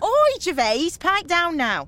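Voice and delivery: high, loud interruption; loud telling-off. Acted. Organiser silencing the chattering interviewer, calling loudly. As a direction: call down the bus for hush.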